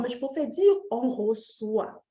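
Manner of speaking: usual speaking voice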